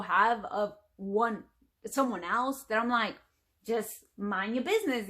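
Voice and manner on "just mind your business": light Fresh Prince impression; a hint of sitcom sass, lightly imitated; Will Smith. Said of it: "I did that because I remembered, uh, Will Smith".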